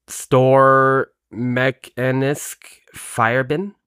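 slow, halting read with a hint of German; slight German accent. Real, not acted. Co-host attempting a Danish phrase cold, hesitant German accent. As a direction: sound out foreign words slowly in a German-tinged accent. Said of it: "kinda put a German accent on it".

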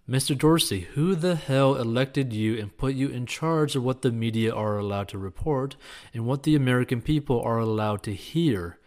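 read-aloud thunder, mildly loud. Retold or imitated. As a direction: boom it like a senator grilling. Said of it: "he thundered".

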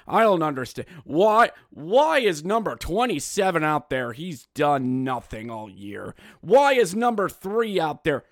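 a hint of a loud complaining fan; mildly mocked complaining fan; mock clueless fan. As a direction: lightly imitate a fan yelling at the bench. Mocking clueless fans.

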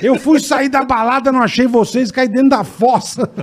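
high-pitched voice, laughing through it; drunk friend's excuse. Retold or imitated. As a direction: act out the silly excuse. Friend explaining fall, voiced high. (imitando o amigo, voz mais aguda)

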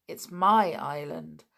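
a hint of pride; proudly. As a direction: say it with pride in ownership. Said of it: "said George proudly".

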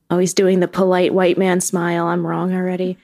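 usual speaking voice

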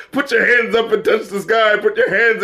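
disbelieving, mocking echo; incredulous repeat. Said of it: "really, the singer?".

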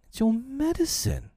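high-pitched, dismayed wife; wife appalled at what she has found. A narrator's reading. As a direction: gasp out the discovery in a high voice. Wife discovers the trick.

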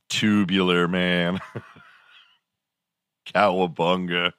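lightly voiced surfer dude, words stretched out; California surfer slang. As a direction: draw it out with a hint of surfer. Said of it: "really talked like that".

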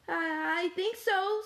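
high, stammering little voice; small high character voice; shaken Spoon. A narrator's reading. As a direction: answer hesitantly after a fall. Shaken spoon answers after fall.

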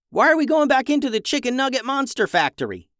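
a narrator's restrained yell, pitched well up; mild yell. A narrator's reading. Rafa questioning the run back into the factory, mild yell. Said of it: "yelled Rafa".

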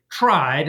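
tried leaned on, set apart with weight; stress on tried. Shown as a demonstration. Historian stressing that the British only tried, leaning on tried. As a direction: hit the word tried hard. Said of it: "I'll emphasize the word tried".

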